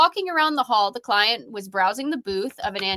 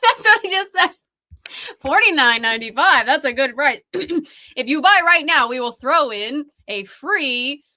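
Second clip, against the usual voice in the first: infomercial pitchman; 4 dB louder than usual. Pretend. Mock infomercial sales pitch.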